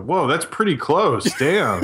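drawn-out impressed whoa, half laughing; amazed. Retold or imitated. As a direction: retell being impressed, slowly. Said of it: "and you go".

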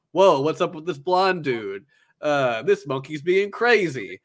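slow, drawn-out imitation of disbelief; baffled rival, lightly acted; mock astonishment. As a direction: play a thrown opponent, slowly. Voices Silver startled by Kisei.

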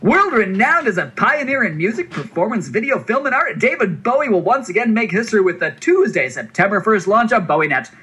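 high, excited carnival barker pitch; hype voice. Acted. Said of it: "use a hype voice".

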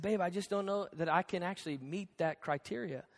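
quiet, tactful confession after a quarrel; gentle admission. Retold or imitated. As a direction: let her down gently. Husband gently conceding in retold quarrel.

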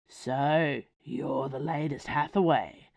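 gruff werewolf thug, lightly voiced; a hint of a rumbling brute sneering at her; low rumble. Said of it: "said a low rumble of a voice".

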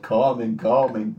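put-on Dracula-style accent on each word; lightly Dracula-like accent; Dracula-like impression. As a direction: mimic him like a mock Dracula. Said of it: "like, Dracula".

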